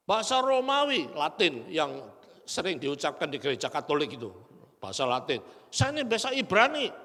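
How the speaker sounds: a proud preacher brags about his degrees; arrogant boast. Retold or imitated. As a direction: brag like a proud scholar. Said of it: "Wah, ini kan sombong".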